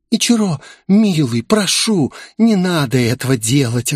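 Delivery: high, anxious begging; pleading. Acted. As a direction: beg him to stop, voice up. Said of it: "молилась Грейс". (высокая испуганная мольба)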